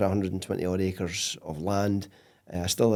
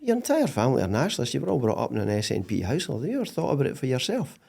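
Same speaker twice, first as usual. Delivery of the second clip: imitating his wife; 4 semitones higher, faster than usual. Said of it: "She goes".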